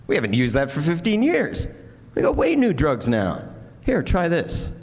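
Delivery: high, emphatic retold disbelief; astonished dermatologist. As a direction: exclaim it as a doctor amazed at outdated news. Acts out astonished dermatologist's reply.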